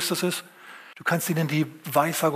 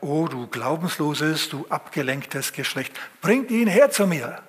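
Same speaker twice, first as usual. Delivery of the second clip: solemn scolding; slower than usual. Acted. Jesus scolds, 122 er schimpft.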